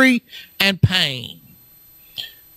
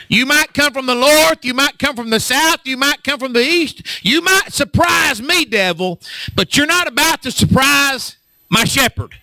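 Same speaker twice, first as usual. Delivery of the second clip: defiant taunt; 5 semitones higher than usual. Acted. Preacher taunting the devil.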